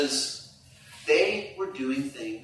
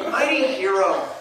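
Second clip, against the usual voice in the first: wife's mock praise; 3 semitones higher than usual. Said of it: "hear it from my wife".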